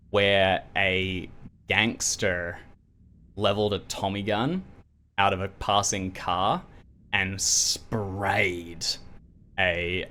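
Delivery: slow, measured narration with weighted pauses; storyteller letting each phrase land; game master scene-setting. Acted. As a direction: lay out the grim discovery piece by piece.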